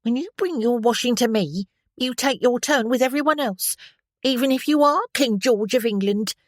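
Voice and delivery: high, loud scolding washerwoman. A narrator's reading. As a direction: tell off the officer, stick waving. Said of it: "could not imitate her broad Cockney accent".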